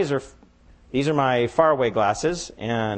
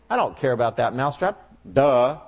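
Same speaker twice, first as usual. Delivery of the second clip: dismissive cow. Acted. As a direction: shrug the mouse off with a sneer.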